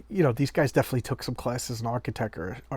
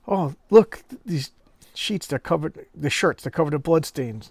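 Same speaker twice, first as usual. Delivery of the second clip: mock alarm; 3 semitones higher, 4 dB louder than usual. Wife finds bloodstained shirts.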